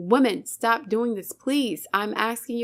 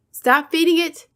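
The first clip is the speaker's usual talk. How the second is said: raised, higher and louder, real frustration; yelling; 5 semitones higher, 6 dB louder than usual. Real, not acted. Yelling at women who feed a cheating man. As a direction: yell the order to stop. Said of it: "I'm sorry for yelling".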